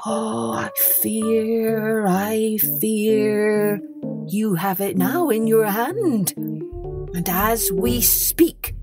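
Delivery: slow, secretive, sinking into a whisper; conspiratorial peasant, ending whispered; hushed warning. Acted. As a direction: scare him with a confidential hush. Peasant scares Hans with rumours.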